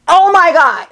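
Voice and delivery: high-pitched fan squeal; thrilled, high re-enacted exclamation; starstruck. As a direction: gush like a fan acknowledged by an idol. Retelling her thrilled reaction to a singer.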